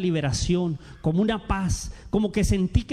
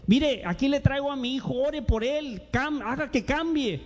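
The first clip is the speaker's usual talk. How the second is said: pitched up, a worried parent's plea; pleading parent; 6 semitones higher than usual. Retold or imitated. Parent begging the pastor to pray for their son, pleading. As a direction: plead for your son, softening.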